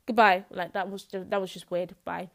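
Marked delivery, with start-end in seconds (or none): 0.1-0.4 laughing shout. Shown as a demonstration. Host shouting her proper goodbye to listeners, laughing. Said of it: "I don't end my podcast like this".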